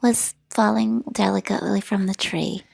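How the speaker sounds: slow, dreamy impression of the cohost's delicate talk; dreamy parody. Teasing the cohost back with a slow, dreamy impression. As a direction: drift through it slowly, mock-poetic. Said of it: "I'm definitely not like".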